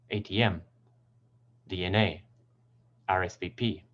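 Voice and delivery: "A T M, D N A, R S V P" stressing M, A and P; "A T M, D N A, R S V P", each ending on its strongest letter; final-letter stress. Shown as a demonstration. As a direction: lean on the last letter of each acronym. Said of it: "the final letter is usually stressed".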